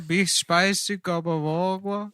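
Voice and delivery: slow, high, loud noir drawl; noir detective. Pretend. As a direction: stretch it out like a detective voiceover. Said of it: "It's just the voice".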